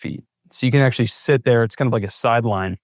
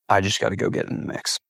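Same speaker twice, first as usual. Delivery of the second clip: inner thought; 2 semitones lower, 6 dB quieter, faster than usual. Retold or imitated. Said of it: "I'm like".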